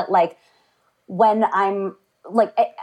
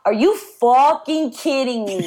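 Australian friend mocking the catchphrase; 4 semitones higher, slower than usual. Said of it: "She was like".

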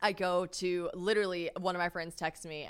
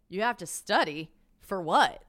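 acted disbelief, louder on the last question; incredulous reaction; 5 dB louder than usual. Woman repeating her reaction to his excuse, incredulous. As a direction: challenge his excuse, baffled. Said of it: "I react like this to him".

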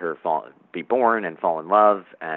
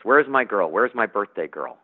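father calling up the stairs, louder; calling upstairs; 3 semitones higher, 3 dB louder than usual. Acted. Father calls upstairs to his birthday girl, louder. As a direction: call up to his daughter as a cheerful dad. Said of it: "Then he calls up the stairs".

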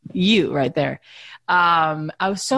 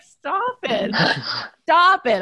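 retold exasperation; 8 semitones higher, much slower than usual. Retold fight, she gets mad.

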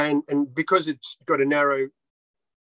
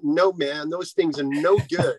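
put-on American accent; slower than usual. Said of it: "if it's an American accent".

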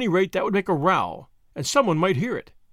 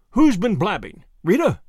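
angry demand; 2 semitones higher, 6 dB louder than usual. Acted. Whittington demands angrily.

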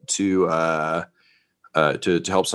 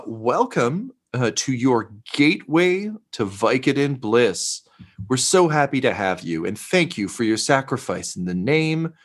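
lightly voiced gushing greeter, lilting and unhurried; a hint of reverent customer-service cheer; fawning staff woman. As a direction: welcome them like a devoted cult hostess.

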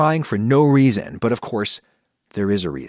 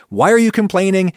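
higher, louder impatient dismissal; irritated coworker; 4 semitones higher, 3 dB louder than usual. Retold or imitated. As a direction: brush off a complaining colleague with annoyance. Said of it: "we get mad at them".

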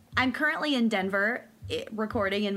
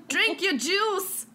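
slow, high Southern mom voice; Steel Magnolias quote; 8 semitones higher, much slower than usual. Retold or imitated. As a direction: quote it like Ouiser in the film. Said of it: "Steel Magnolias".

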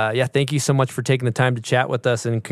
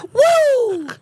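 high, loud whoop of a rush; excited whoop; 6 dB louder than usual. Real, not acted. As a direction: let out a wild woo. After taking smelling salts.

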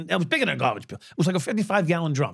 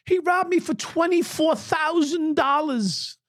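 woman accusing; 13 semitones higher, slower than usual. Retold or imitated. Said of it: "she's telling this cop".

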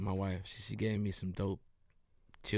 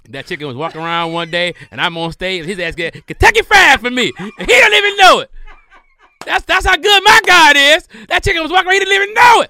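hammed-up preacher, much higher and louder, laughing; shouted sermon with laughter breaking through; mock preaching; 24 dB louder than usual. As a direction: preach it to the rafters like a revival. Preaching about God's providence.

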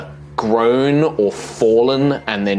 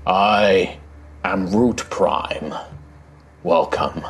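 slow, grave ancient guardian; deep rumbling voice; 3 semitones lower than usual. Acted. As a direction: speak like a giant of stone, unhurried. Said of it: "this deep rumbling voice".

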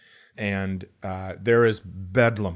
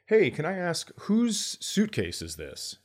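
overly polite ask; 9 semitones higher than usual. Retold or imitated. Politely asking fellow passenger.

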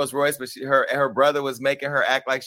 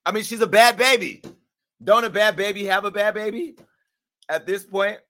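mocking high voice; 9 semitones higher, 5 dB louder than usual. Mocking high voice about Bad Baby.

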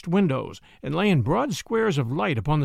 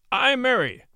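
archaic prior; 7 semitones higher than usual. Acted. Prior answers sheriff.

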